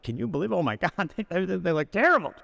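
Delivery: hushed then laughing gossip in the elevator; shocked gossip. Retold or imitated. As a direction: drop the act and gasp in disbelief.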